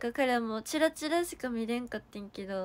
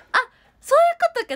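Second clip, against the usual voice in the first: much higher, much louder exclaim; sudden realization; 15 dB louder, much faster than usual. Real, not acted. To chat, getting the joke, a loud high surprised exclaim. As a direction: burst out as it clicks.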